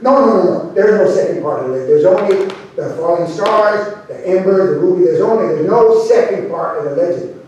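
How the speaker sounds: quick, emphatic protest; insistent denial. Acted. Vaquero contradicting Cookie about the legend, insistent denial. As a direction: cut in and deny it firmly. Vaquero denies there is a second part.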